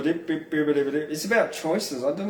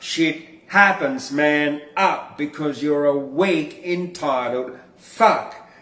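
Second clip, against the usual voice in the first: punchy, emphatic spoken-word recitation; spoken-word poem; 3 dB louder than usual. Acted. Poet reads his tough-love poem to viewers. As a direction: hammer each blunt line home.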